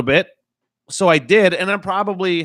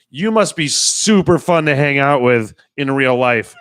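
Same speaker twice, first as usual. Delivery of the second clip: slow, louder sarcastic jab; mock sarcasm; 5 dB louder, slower than usual. Driver replying to scolding lady, slow sarcasm. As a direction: stretch it out with a laugh behind it.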